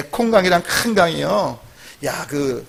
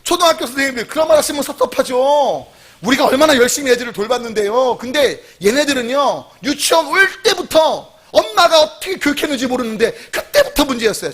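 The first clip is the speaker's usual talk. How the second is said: higher-pitched, mock-hurt protest; playfully aggrieved complaint; offended kindergarten teacher; 4 semitones higher than usual. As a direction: act out a put-out teacher passing the blame. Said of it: "유치원 기분 나빠".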